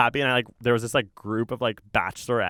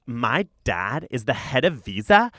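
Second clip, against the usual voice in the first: put-on indignant kid; 4 semitones higher, slower than usual. Kid demanding to be let in.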